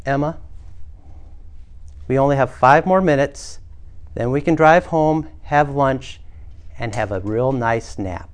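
patient, paused, slightly hushed mom voice; calm. Acted. Mom talking through the checkout tantrum, calmly and patiently. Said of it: "say calmly for the third time".

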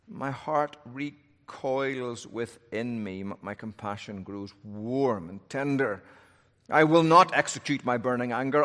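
solemn Bible reading aloud; scripture reading. Acted. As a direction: read the passage with weight.

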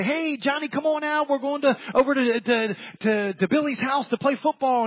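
put-on high, eager kid voice calling a friend; lightly voiced buddies at the door. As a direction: call him out to play like a boy. Kids calling friend out to play.

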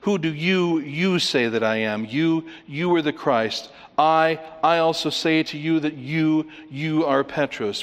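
each doubled "you" and "I" punched; emphatic pronouns. Shown as a demonstration. Preacher shows the four emphases, stressing "you" and "I". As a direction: hit the first pronoun, pause, repeat it. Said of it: "Very emphatic and all about what people say".

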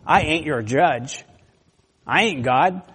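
a lightly voiced Joseph, slow and casual; folksy paraphrase of Joseph. Joseph tells his brothers, lightly voiced casual reassurance. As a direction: Joseph in plain talk, drawn out on ain't. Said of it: "he says in verse nineteen, basically".

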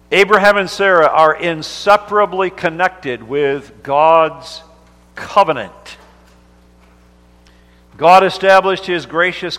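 fervent sermon delivery; preaching. Acted. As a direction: preach it out to the congregation. Preacher builds to heightened delivery.

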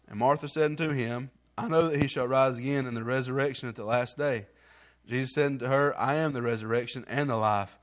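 steady, measured Bible reading; scripture reading. Acted. Reads John 11 scripture.

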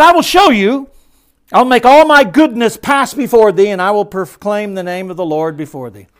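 high, loud, ringing proclamation; booming voice of God. Acted. Preacher voicing God to Moses, booming and high. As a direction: thunder it out as God speaking.

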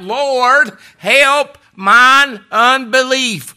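loud, high, slow desperate cry. Retold or imitated. Father begging the Lord to heal his son, loud slow cry. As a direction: wring out "help mine unbelief" slowly. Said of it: "the man cried out".

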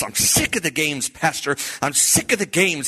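mock table-banging exasperation; retold fed-up outburst. Youth leader banging the picnic table before his pastor, fed up. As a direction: act out a fed-up confession. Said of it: "he's banging on it like this".

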